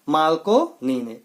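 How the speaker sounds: slow repeated drill answer. Shown as a demonstration. Teacher repeating the quiz answer slowly. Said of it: "radio की खोज किसने की?".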